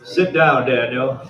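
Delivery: stern teacher calling the room to order; loud sharp voice. Pretend. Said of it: "use my teacher voice".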